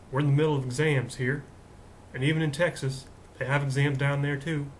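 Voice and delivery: lightly put-on Texan twang; Texas accent. Host telling students about exams, playful Texas accent. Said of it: "Kinda like doing a Texas accent".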